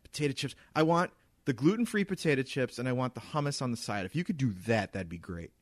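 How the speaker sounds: a hint of entitled customer ordering; snooty tone. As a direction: imitate a demanding diner, lightly. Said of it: "giving me this tone that is completely unnecessary".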